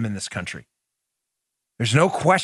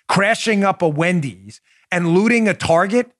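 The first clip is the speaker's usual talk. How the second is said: outraged rant; 5 semitones higher than usual. Real, not acted. Host scolding rioters on his show, with rising outrage. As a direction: hammer home the outrage, slowing on each item.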